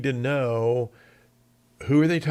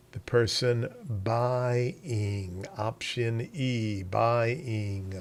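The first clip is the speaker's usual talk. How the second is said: Ozark accent on buying; Ozark twang; 3 dB quieter, much slower than usual. Shown as a demonstration. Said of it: "Use my Ozark twang there".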